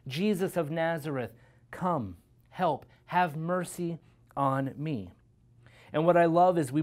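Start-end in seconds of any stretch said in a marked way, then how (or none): 0.1-5.1 firm cry for help, slowing on the plea; proclaimed plea. Acted. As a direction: proclaim it openly without truly shouting. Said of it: "proclaiming the thought".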